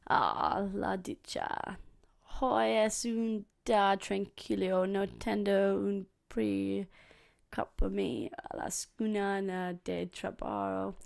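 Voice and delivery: slow careful Spanish reading, sounding out; reading Spanish aloud haltingly. Real, not acted. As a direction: read the Spanish slowly word by word. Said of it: "which is only in Spanish".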